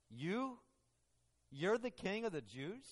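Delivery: soft, rising disbelief; incredulous question. Retold or imitated. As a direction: lean on YOU, quietly doubting it. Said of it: "That's his question that he's asking him".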